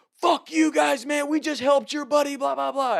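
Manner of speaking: high-pitched mock shouting; retold screaming. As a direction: imitate jocks yelling over a fence. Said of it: "they start screaming at us".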